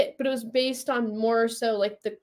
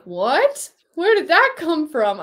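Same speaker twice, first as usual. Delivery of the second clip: shocked; 5 semitones higher, slower than usual. Retold or imitated. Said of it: "I was shocked".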